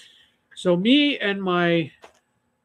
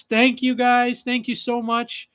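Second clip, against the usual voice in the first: polite mom thanks; 6 semitones higher than usual. Retold or imitated. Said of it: "she goes".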